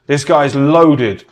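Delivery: slow, drawn-out mock awe. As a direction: stretch it out as if amazed. Mocking people impressed by money.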